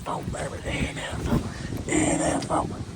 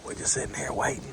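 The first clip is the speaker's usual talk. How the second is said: whispering; 12 semitones lower, 9 dB quieter than usual. Real, not acted. Waiting quietly in the blind.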